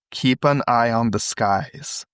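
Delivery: slow, drawn-out caller voice; mysterious caller. Acted. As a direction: read it slowly and evenly, lightly in role. Reading the mysterious caller's line.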